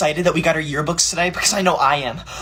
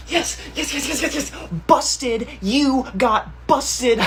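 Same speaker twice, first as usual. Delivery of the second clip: gloating laugh; 6 semitones higher, 3 dB quieter, slower than usual. Acted. Gloating victory.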